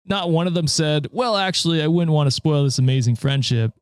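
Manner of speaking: a hint of a smug frat bro; frat boy voice. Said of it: "That's a neck beard voice".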